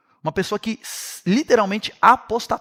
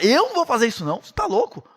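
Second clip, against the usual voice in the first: mildly panicked protest, leaping higher at the end; acted desperate refusal; 6 semitones higher than usual. Armour-bearer refusing Saul's order to kill him, acted desperation. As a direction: refuse in mock alarm, pitch jumping up on the last phrase. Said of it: "desesperado, fala".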